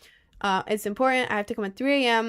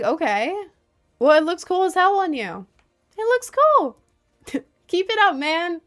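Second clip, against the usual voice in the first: much higher, louder cheering voice; excited high praise; 9 semitones higher, 8 dB louder than usual. Pretend. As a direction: gush encouragement at him. Imagined encouraging reply to guy.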